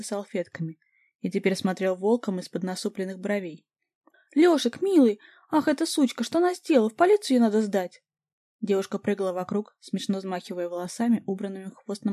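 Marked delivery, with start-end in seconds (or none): 4.3-8.0 high, loud frantic wailing; hysterical fussing. A narrator's reading. The girlfriend fusses over her burned boyfriend, high and frantic. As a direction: flap about in a panic.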